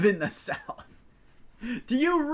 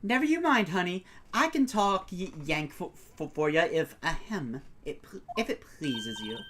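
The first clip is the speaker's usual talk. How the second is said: put-on Southern accent; 2 semitones lower than usual. Photographer offering to talk Yank, steadier Southern accent. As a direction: reassure in a folksy Southern accent. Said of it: "why I don't speak a Southern accent".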